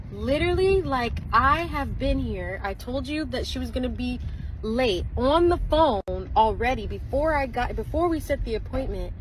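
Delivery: frustrated customer arguing with the manicurist, heated; retold confrontation. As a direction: push back at the manicurist, heated. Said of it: "then I start saying".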